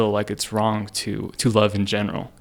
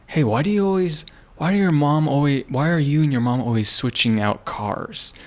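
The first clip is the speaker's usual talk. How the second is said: higher, suspicious questioning voice, lightly put on; mock nosy old man; 5 semitones higher than usual. Older guy quizzing him about swapping cars, higher mock suspicious voice. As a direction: imitate a prying older neighbor.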